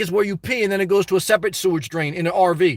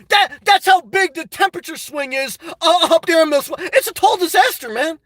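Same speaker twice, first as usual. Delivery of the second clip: roast him, shouting and laughing; mock rant; 4 semitones higher than usual. Real, not acted. Mock rant against Milwaukee viewer.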